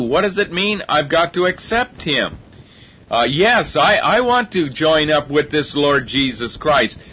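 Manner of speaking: mock naive sinner, lightly ironic; a touch of sarcasm voicing a complacent believer; sarcastic. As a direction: play the self-satisfied convert with a sarcastic edge. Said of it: "I almost sound sarcastic".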